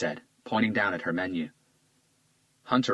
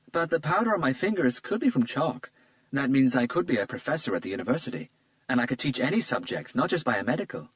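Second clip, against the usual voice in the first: put-on lightly raised, charmed young woman; a flattered young woman, a bit higher; Isabella's voice; 6 semitones higher than usual. A narrator's reading. Isabella charmed by Hunter's compliment, lightly higher voice.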